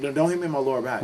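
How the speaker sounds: grouchy retold insistence. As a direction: imitate someone crabbily repeating a warning. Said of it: "he was real grouchy".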